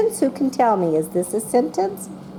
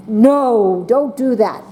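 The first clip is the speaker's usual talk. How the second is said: mad; 4 dB louder, slower than usual. Shown as a demonstration. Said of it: "or mad".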